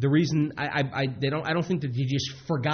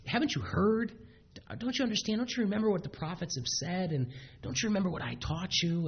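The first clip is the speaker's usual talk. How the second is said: gentle loving; 6 semitones higher, 5 dB quieter than usual. Retold or imitated. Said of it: "such a gentle, loving way".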